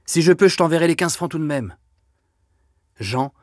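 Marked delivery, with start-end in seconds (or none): 0.0-1.8 high, pressing plea to her brother; urgent high plea. A narrator's reading. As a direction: push him away, voice pitched up. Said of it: "répétait Denise". (supplique pressante et aiguë)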